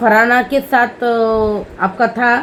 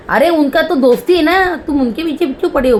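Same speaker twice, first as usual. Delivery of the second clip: a touch higher, lightly voiced complaining woman; imitating Malti; 6 semitones higher than usual. Vlogger retelling Malti scolding Basheer, lightly higher mock voice. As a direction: mildly mimic Malti's protest. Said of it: "मालती बोल रही".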